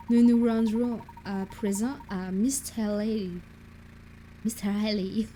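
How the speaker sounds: put-on English-accented French, "Mister Haley" said as English. Professor announces the destination, put-on English accent. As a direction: say it like an English gentleman speaking French. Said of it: "mon accent anglais qui vire vers l'allemand".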